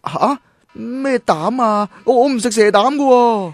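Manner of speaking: puzzled alarm at a strange word; startled, halting protest; confused surprise. Acted. Misheard lightbulb as snake gall.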